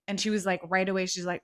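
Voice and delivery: normal talking voice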